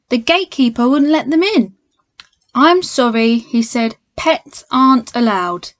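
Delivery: lively storybook read-aloud; reading to children. A narrator's reading. Teacher reads Paddington to children at home, lively storybook voice. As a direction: read it like a bedtime picture book for kids.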